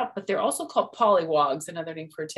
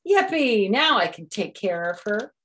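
high loud yippee; Froggy celebrating; cheer; 4 semitones higher, 5 dB louder than usual. Acted. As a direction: whoop with joy.

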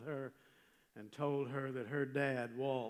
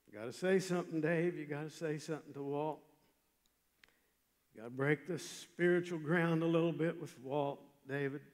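pushing himself on, a touch raised; retold self-urging, emphatic on key words; urgent inner voice; 2 semitones higher, 4 dB louder than usual. Preacher voices his conscience before talking to Walt, urgent.

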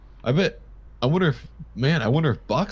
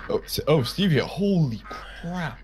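startled; 4 semitones higher, slower than usual. Acted. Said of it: "You scared me".

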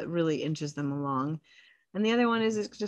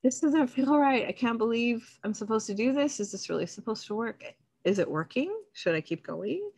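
anxious doubts; 5 semitones higher than usual. Retold or imitated. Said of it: "you might be like".

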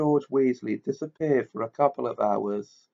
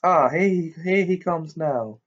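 stern professor; 5 semitones higher, 3 dB louder than usual. A narrator's reading. McGonagall sees Dumbledore.

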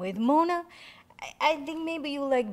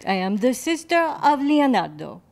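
mock Italian accent; 6 dB louder than usual. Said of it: "the wrong accent".

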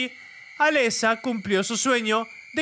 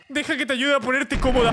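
creepy mother; 7 semitones higher, faster than usual. Acted. Mother, laughing.

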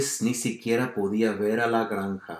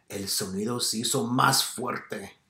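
"más fuerte" raised and stressed; emphasis on MÁS FUERTE; 2 semitones higher than usual. Shown as a demonstration. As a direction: lean on "más fuerte" as printed bigger. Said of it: "más énfasis".

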